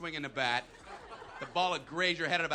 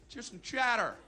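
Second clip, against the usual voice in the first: mildly raised coach call; coach's yell; 4 semitones higher than usual. Acted. Coach asks players for chatter, mild yell. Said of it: "coach would yell from the dugout".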